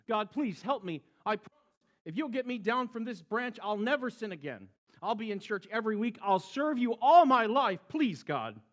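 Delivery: high, fast frantic bargaining; man hanging from a branch, begging God; desperate pleading. A narrator's reading. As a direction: beg God with every promise.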